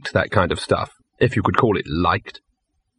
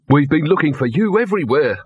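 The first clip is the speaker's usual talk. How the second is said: higher, exasperated trainer; irritated complaint, not hushed; muttered; 5 semitones higher than usual. Acted. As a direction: grumble at the runaway dog. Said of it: "muttered one of the trainers".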